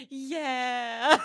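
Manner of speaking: high, loud, drawn-out whine; mock tearful agreement. Crying along with a sobbing friend, tearful agreement. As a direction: imitate yourself agreeing through tears.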